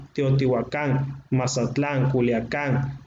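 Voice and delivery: Teotihuacán, Mazatlán, Culiacán each stressed on the final syllable, spoken slowly; stress on the last syllable. Shown as a demonstration. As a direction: land each name on its last syllable -cán, -tlán, -cán. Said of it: "la pronunciación era en el acento agudo".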